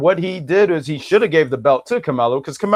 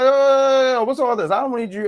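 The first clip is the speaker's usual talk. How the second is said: lightly voiced Bronx bodega guy, higher; a hint of a Bronx bodega clerk; mock Bronx corner store voice; 7 semitones higher than usual. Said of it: "I made him sound like one of them guys in the bodega stores in the Bronx".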